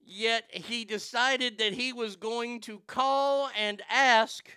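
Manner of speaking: slow build, then hit "ask" hard; stress on ask. Acted. Outraged commentary on councilman's hypocrisy.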